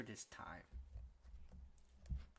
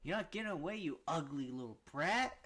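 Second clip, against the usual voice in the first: villain taunt; 4 semitones higher, 3 dB louder than usual. Acted. Voicing villain Daki's threat.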